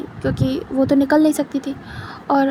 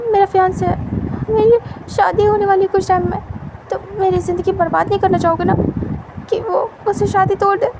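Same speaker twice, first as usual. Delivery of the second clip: nervous coaxing; 5 semitones higher than usual. Acted. Wing coaxing captor to stop.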